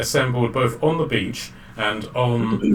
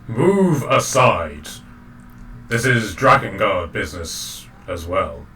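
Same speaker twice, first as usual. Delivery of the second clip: intimidating dragon. Acted. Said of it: "dragon is going to do an intimidation check".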